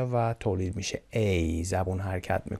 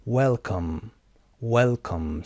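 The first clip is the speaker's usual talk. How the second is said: WEL-come, well more prominent in Welcome; stress on first syllable; much slower than usual. Shown as a demonstration. Teacher models word stress, WEL stressed in Welcome. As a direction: lean on well, lighter come.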